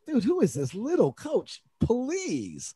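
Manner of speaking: high-pitched mocking disbelief; retold dismissive sneer; scornful. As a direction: imitate a referee scoffing at a coach. Mimics referee scorning the coach.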